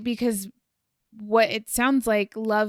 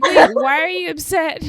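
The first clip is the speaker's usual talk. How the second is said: a higher, louder, puzzled "wait, why are you upset"; puzzled husband; 6 semitones higher, 7 dB louder than usual. Retold or imitated. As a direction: play the baffled boyfriend, honestly confused. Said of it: "He was like".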